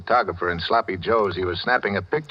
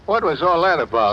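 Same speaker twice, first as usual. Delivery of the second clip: startled; 8 semitones higher, 5 dB louder than usual. Acted. Startled after the police leave.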